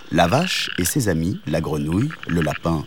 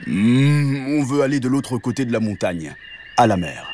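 cow character; 3 semitones higher than usual. Acted. Cow sums up for the hedgehog, humming cow voice. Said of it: "résuma la vache".

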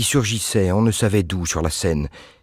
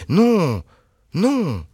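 vif refus; 12 semitones higher than usual. A narrator's reading. Anne interrupts.

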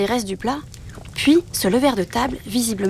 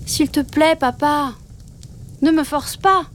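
higher, pleading cub voice; pleading little wolf; 6 semitones higher than usual. A narrator's reading. Little wolf begging father wolf not to force him, pleading. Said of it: "tenta-t-il à nouveau".

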